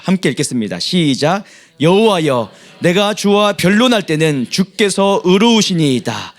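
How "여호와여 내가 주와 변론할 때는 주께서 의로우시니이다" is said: steady, measured reading aloud; scripture reading. Acted. Congregation reading scripture aloud together, measured. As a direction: read the psalm together, evenly. Congregation reads Jeremiah's prayer.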